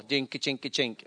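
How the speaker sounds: low rhythmic dinka-chink vamp; imitated chinka rhythm. Mocking an old-style worship band, rhythmic imitation. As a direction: mimic a plodding worship band with the voice. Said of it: "then you have a chinka".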